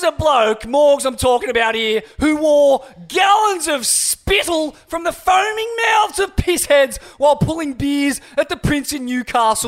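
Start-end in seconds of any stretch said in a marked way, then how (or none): 2.2-9.7 shout. Acted. Mock sports commentary rant.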